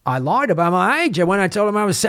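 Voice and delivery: put-on old veteran with accidental Aussie accent; badly faked Australian accent; botched Aussie accent. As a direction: attempt British, drift into Aussie. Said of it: "I don't know why I'm doing an Aussie accent".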